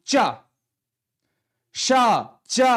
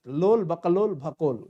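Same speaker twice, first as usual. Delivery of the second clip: playful mock scolding; 4 semitones lower than usual. Teacher mocks wrong spellings.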